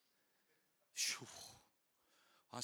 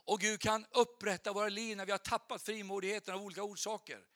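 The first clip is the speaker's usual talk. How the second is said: raised, emphatic sermon voice; fervent preaching; 7 semitones higher, 7 dB louder than usual. Real, not acted. Preacher promises God restores lost boldness, fervent preaching. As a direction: urge hope on the congregation.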